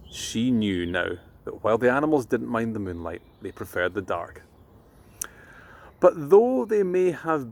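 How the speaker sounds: put-on gentle storyteller reading to children; bedtime story reading. A narrator's reading.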